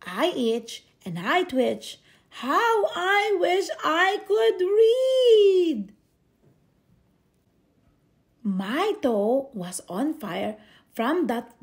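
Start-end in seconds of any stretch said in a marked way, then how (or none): 2.4-5.9 anguished wish. Acted. Itching boy longs to read.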